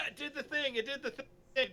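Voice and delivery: loud, high, delighted outburst; real excited surprise. Real, not acted. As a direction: burst out as it finally works. Stream gadget suddenly works.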